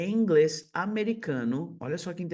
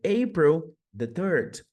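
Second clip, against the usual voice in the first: slow, careful "April the second"; slow model date; 5 dB louder, slower than usual. Shown as a demonstration. Teacher slowly models an American date. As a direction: give the date slowly as an example. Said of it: "Dia três de abril".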